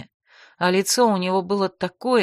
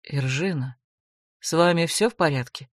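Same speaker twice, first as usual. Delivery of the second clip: insinuating; 3 semitones lower than usual. Acted. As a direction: coax her like a sly court mage. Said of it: "вкрадчиво спросил придворный маг".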